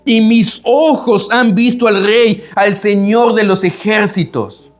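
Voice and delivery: lamento exclamado algo más agudo; exclamación de Isaías. Retold or imitated. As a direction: clama ay de mí con angustia. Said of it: "mira la expresión con la que Isaías exclama". (el predicador imita a Isaías, exclamando con angustia)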